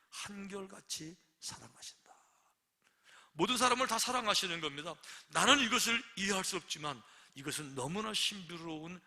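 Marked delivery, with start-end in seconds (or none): 0.1-2.1 breathless whisper, slower; hushed whisper of God's constant love; whispered awe. Real, not acted. Tender climax of sermon. 3.3-4.9 proclaiming. Real, not acted. Preacher proclaims.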